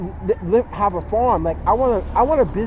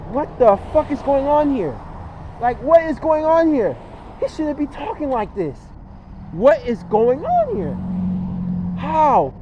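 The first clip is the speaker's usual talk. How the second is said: shocked outburst; 5 semitones higher than usual. Retold or imitated. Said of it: "people will look at you and like".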